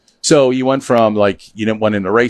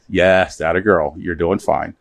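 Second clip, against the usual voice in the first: reassuring; 4 semitones lower, slower than usual. Retold or imitated. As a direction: soothe her gently. Reassuring mom in retold call.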